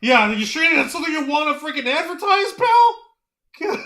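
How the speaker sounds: fast, rising mock disbelief ending high; incredulous jab. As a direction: rattle it off then fling pal up high. Mocking retort to Ospreay.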